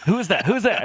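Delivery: lightly voiced nosy boss; hailing through the stall door; mock boss calling out. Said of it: "And he's like".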